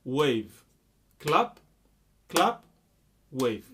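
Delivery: loud single-word beat cues; counted clap pattern. Shown as a demonstration. Music teacher counting claps and waves for students, spoken beat cues. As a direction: call out each beat crisply, evenly spaced.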